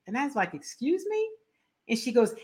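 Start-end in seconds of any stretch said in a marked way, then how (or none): 0.5-1.3 stunned. Retold or imitated. Stunned reply to rude stranger.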